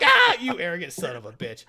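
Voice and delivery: mock outrage broken by laughter; laughing mock insult; laughing through it. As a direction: curse while cracking up. Mordo maced, retold laughing.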